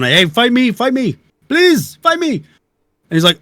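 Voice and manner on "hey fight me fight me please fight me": high-pitched, drawn-out begging yell; retold pleading yell. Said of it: "I was yelling".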